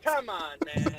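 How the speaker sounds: Joe Biden impression. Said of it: "do the voice again".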